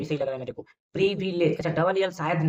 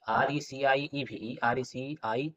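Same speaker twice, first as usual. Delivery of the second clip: slow spelling; 2 semitones lower, 4 dB quieter, much slower than usual. Shown as a demonstration. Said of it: "sorry, sorry".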